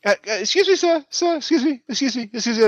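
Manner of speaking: insistent calling after. Acted. Merrymaker to departing man, insistent. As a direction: pester him politely to stop.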